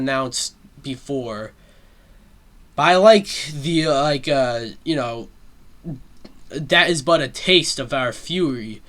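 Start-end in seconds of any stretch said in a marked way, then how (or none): 6.5-8.8 lightly voiced king penguin, drawn out at the end. Penguin king challenging Bowser to yield, lightly voiced and stately. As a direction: mimic a proud movie challenge, stretching the final words. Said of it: "This King Penguin pe-, character".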